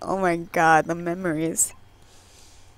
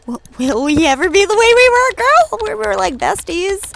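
high, rising, louder plea; mock pleading; 9 semitones higher, 5 dB louder than usual. Player voicing a chat plea to an old friend, high mock pleading. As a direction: plead theatrically, pitch climbing high.

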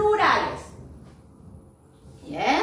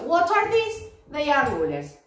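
asking and answering; slower than usual. Shown as a demonstration. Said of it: "me voy a preguntar y me voy a contestar".

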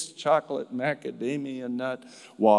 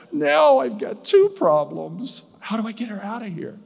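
higher and louder, then rushing the question; flustered worry; 9 semitones higher, 6 dB louder than usual. Retold or imitated. Chaplain fretting over removing the visitor, flustered rush. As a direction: spill out the worry in a hurry. Retold panicked thought.

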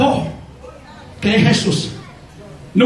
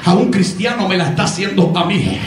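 lower, steady voice of Christ speaking to Saulo; 5 semitones lower than usual. Acted. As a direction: speak as Christ, firm and low. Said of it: "Lo que Cristo le está dando a entender". (Cristo hablando a Saulo, con voz grave y firme)

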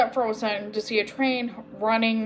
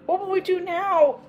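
higher, groaning worry; a touch of groaning despair; mild groan; 8 semitones higher than usual. A narrator's reading. Agnes at a loss what to do, groaning mildly. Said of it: "groaned Agnes".

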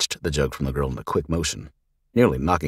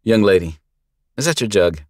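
kindly lawman; 5 semitones higher, 7 dB louder than usual. Acted. Lawman addresses the girl.

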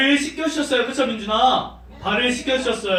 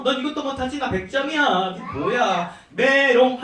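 lightly acted childish boasting; mock show-off taunt; 2 semitones higher than usual. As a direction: imitate a smug kid putting a friend down. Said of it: "자기 더 잘난 척하면서".

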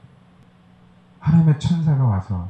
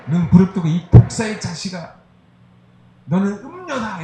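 mock condemnation; 8 semitones higher than usual. Mock harsh condemnation by Jesus.

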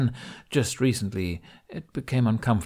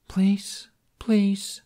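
whispered plea; 12 semitones higher, 3 dB louder than usual. A narrator's reading. Pouting plea.

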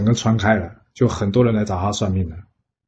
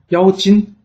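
incredulous; 8 semitones higher, 4 dB louder than usual. Acted. Bigan hears claim of demon.

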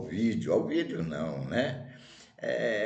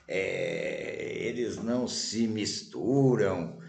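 fed-up grumbling; 3 dB louder than usual. Acted. Fed-up wanderer complains about hometown.

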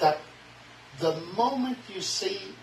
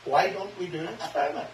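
laughing challenge; 2 semitones higher than usual. Retold or imitated. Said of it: "You heard me".

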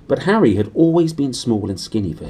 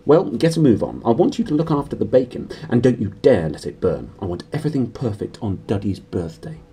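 bossy aunt; 2 semitones higher than usual. Acted. Aunt orders Harry.

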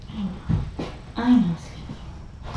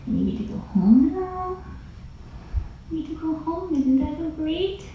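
cooing to the cat; 6 semitones higher than usual. Real, not acted. Carer telling the cat about her new home, cooing. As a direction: coo it like talking to a pet.

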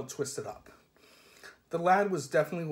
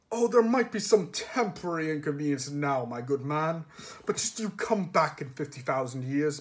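pinched, nasal posh voice; strangled nasal voice. Retold or imitated. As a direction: squeeze it through the nose like a snob. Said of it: "he put on a strangled no-, nasal voice".

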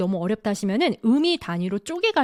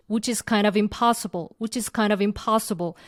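very slow, "kind" pressed; stress on kind; much slower than usual. Shown as a demonstration. Teacher drilling the phrase, slow stress on "kind". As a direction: lean on "kind", slowly. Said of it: "요것도 강세가 kind of impossible".

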